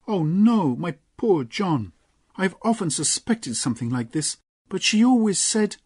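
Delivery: ache for poor John; Lorna, dismayed. Acted. Lorna to John, high dismayed voice.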